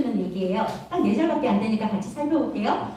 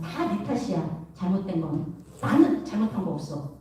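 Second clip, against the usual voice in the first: sulky blaming; 6 semitones lower, 3 dB quieter than usual. Retold or imitated. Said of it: "이런 모습으로 살아가요".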